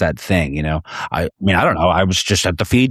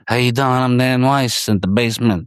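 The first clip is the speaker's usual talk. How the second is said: mock intro; 5 semitones higher than usual. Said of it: "bits where they're like".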